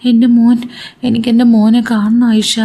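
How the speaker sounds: a worried mother pleading, understated tears; mildly tearful plea. Acted. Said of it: "നീ കരയാതിരിക്ക് ഷാഹി". (ചെറുതായി കരച്ചിലോടെയുള്ള അപേക്ഷ)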